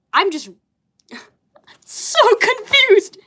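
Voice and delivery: high, slow laugh-through words; real laughter breaking the words. Real, not acted. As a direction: dissolve into confused giggles. Giggling at her own comic.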